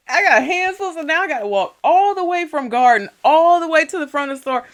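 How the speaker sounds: high, exasperated storytelling rant; worked-up, put-upon griping; indignant complaint. Retold or imitated. Indignant retelling of checkout refusal.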